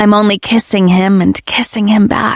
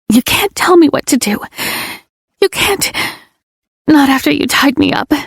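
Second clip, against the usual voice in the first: high, wounded accusation; heated rant; 6 semitones higher than usual. Acted. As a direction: throw it at him, hurt and angry. Heroine rants at Ledger.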